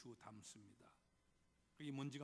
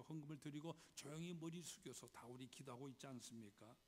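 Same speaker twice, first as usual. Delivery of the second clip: ordinary talk, nothing marked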